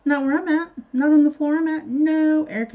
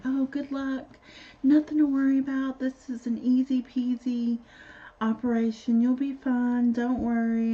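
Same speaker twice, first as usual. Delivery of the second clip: light, higher-pitched reassuring nurse voice; mock reassurance; 4 semitones higher than usual. Nurses sending a patient into surgery, lightly imitated reassurance.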